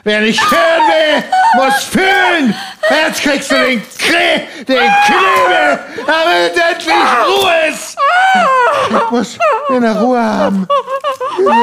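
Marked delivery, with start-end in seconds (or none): 0.0-8.0 threatening shout; menacing shout. Acted. Karl threatens to gag his wife, shouting. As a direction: snarl the threat at her.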